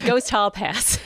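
laughing. Real, not acted. Joke punchline with laughs.

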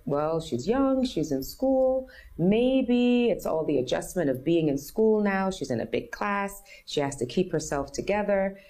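a hint of a patronizing teacher explaining; teacher's answer. Teachers' dismissive answer quoted.

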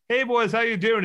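a touch of a high, bubbly greeting; cheery greeting. Retold or imitated. Ashley walking in to greet the boys, lightly perky. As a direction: greet the guys sweetly. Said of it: "she's like".

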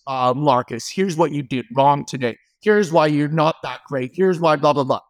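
a hint of a nagging voice in the head, dropped low; inner critic. Voice in the head running the speaker down, lightly played low inner critic. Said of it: "That voice in our head that speaks the crap".

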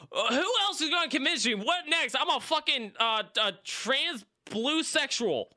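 laughing, high and incredulous. Retold or imitated. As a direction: laugh through the mock question. Mocking the stranger's guesses, laughing.

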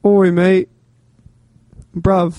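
put-on British slang greeting; British accent. Shown as a demonstration. Guest asked to do a British accent, attempting it. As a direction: toss out a quick bit of British. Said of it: "can you do a British accent?".

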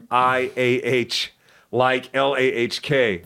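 "I A H" said slowly, letter by letter; slow spelled sounds. Shown as a demonstration. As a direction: spell out the flat vowel slowly. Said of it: "That's what you're saying".

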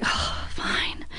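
whispered, sighing give-in; huffed, voiceless reluctant reply; grudging. Retold or imitated. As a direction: give in under your breath, very soft. Retold grudging reply to date.

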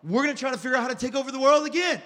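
quick, excited scheming mouse voice; Pinky and the Brain. Retold or imitated. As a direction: rattle it off like a cartoon mastermind. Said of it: "like Pinky in the Brain".

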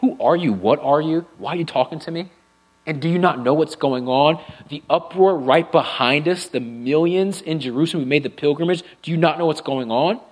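mildly indignant traveler, lightly voiced; understated huffy challenge; a bit of attitude. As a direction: push back at the stranger with a touch of sass. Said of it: "A bit of an attitude".

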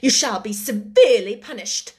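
indignant command. Acted. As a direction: order the girl out with cold indignation. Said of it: "she commanded indignantly".

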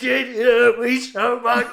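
hammed-up wounded wail; loud mock crying. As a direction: blubber it out for everyone to hear. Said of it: "He's very loud".

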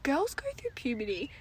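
unvoiced whisper to the audience; whispered aside. Real, not acted. Host whispering an aside to her podcast listeners. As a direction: lean in and tell them a secret.

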